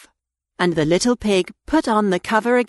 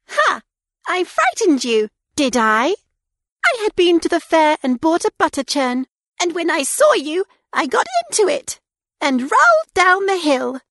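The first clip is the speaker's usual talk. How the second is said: high, quick squeaky pig; gleeful high-pitched piglet bragging; little pig voice; 9 semitones higher than usual. A narrator's reading. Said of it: "the little pig said".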